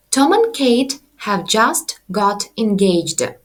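slow, careful Tom and Kate have just got engaged; model sentence. Shown as a demonstration. Teacher reads the example sentence slowly. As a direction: read the example slowly for learners. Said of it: "І приклад внизу".

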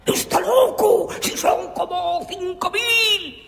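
grito agudo y desesperado. Acted. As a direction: gritar con pánico ante la multitud. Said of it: "gritó el sofá". (grito agudo y desesperado)

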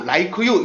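"like you" said as "lai-keu yoo"; "like you" unlinked, in three syllables; separated pronunciation. Shown as a demonstration. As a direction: break "like you" apart with an extra "eu" after k. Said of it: "이러시면 안 돼요".

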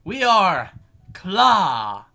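high, loud proclamation from the stand; big high-pitched welcome speech, punched at the end; Ron addressing newcomers. Acted. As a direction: announce it grandly to a crowd of recruits. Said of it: "got up on the stand and was like".

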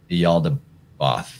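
"Yaldabaoth" drawn out slowly as ee-AL-da-BOTH; variant pronunciation. Shown as a demonstration. Offering listeners a last way to say the god's name, slow variant pronunciation "Yaldabaoth" ending "-bahth". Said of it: "lot of ways you might pronounce it".

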